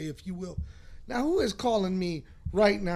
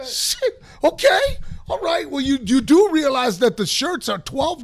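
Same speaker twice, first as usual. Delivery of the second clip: words squeezed through laughter, much higher; laughing; 6 semitones higher, 9 dB louder than usual. Real, not acted. Cracking up at his story.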